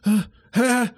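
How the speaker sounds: high, alarmed voice shielding her pups; startled mother dog. Acted. Greyhound mother startled by a stranger, high and alarmed. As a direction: gasp and pull the little ones behind you.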